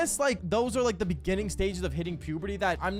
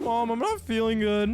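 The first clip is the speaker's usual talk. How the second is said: put-on voice sounding close to tears; 2 semitones higher, 3 dB louder than usual. Speaker retells answering his mom's phone call from school, acting out a crying-sounding voice. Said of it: "Are you crying?".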